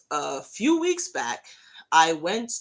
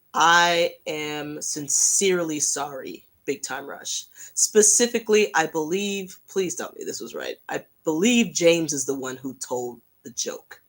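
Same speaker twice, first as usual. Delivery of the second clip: sincere apology; 3 semitones lower than usual. Real, not acted. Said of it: "I just really wanted to say".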